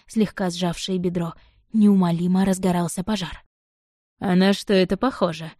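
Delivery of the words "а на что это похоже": velvety voice. Acted. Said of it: "бархатным голосом спросил он".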